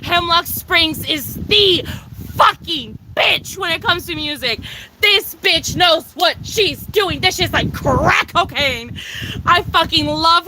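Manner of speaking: high, emphatic gushing; excited gushing. Real, not acted. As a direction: rave about her like a superfan. Gushing about favourite artist.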